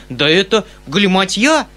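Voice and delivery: perturbed exclamation; uneasy outcry. A narrator's reading. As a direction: cry out as a worried uncle. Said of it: "вскричал дядя с беспокойством".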